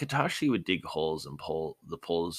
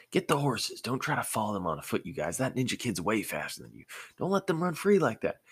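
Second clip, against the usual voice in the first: calling out; 5 semitones higher than usual. Acted. Farmer calling to family frantically.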